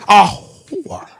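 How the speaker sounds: WHORE drawn out with a laugh; emphatic repeat on request. Real, not acted. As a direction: answer with a long, laughing WHORE. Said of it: "A what?".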